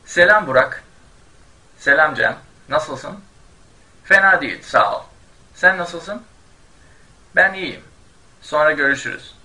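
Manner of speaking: hint of two friends chatting; dialogue read aloud. Shown as a demonstration. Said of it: "I'll be reading at normal speed".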